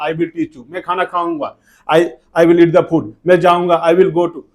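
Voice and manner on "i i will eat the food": slow, careful English, word by word; slow model sentence. Shown as a demonstration. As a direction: spell it out slowly for the class. (धीरे-धीरे साफ़ बोलकर)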